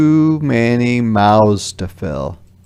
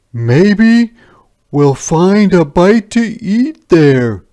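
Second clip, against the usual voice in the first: much higher and louder, eager; hopeful soldier; 10 semitones higher, 10 dB louder, slower than usual. Acted. First soldier seeing village lights, eager raised voice. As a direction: spot the village with hope.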